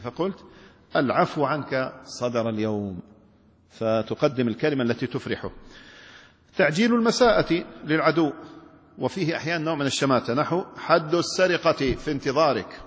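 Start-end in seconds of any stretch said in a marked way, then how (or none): 1.0-3.0 glad tidings. Shown as a demonstration. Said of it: "قدمت كلاما يستبشر به". 10.8-12.8 gloating. Shown as a demonstration. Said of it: "تقولها بنبرة الشماتة".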